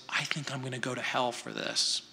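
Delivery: soft, quick muttered confession; hushed, half to yourself; said quietly. Retold or imitated. Preacher voicing someone confessing under breath, softly. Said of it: "Have you ever heard someone say quietly".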